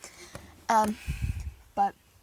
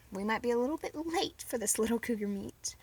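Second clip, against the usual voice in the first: whisper; 6 dB quieter than usual. Real, not acted. Whispered aside.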